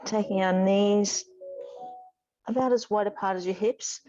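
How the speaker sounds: measured, calm cues with long pauses; guided yoga instruction. Real, not acted. Yoga teacher guiding students through gentle stretches, calm guided instruction. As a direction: lead the movement gently, breath by breath.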